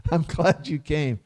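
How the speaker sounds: chuckling through the line; laughing. Retold or imitated. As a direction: say it with a light laugh, quietly. Bhishma glad the Pandavas came.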